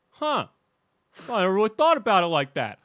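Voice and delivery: high, loud, quick dawning surprise; surprised realization. Retold or imitated. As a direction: sound caught off guard. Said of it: "looked around and was like".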